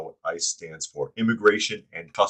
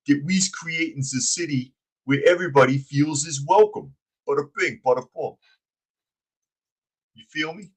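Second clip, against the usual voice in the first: dumb henchman voice; 5 semitones higher than usual. Pretend. Host mocking the mayor as a dumb henchman. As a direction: lay on the goofy mobster act. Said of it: "J J likes the accent".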